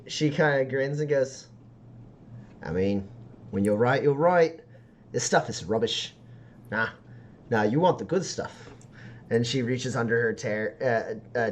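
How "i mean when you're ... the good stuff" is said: lightly voiced backstreet seller; confiding street dealer. Seller steering customer to the good stuff, lightly voiced confiding dealer. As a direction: let the buyer in on better stuff.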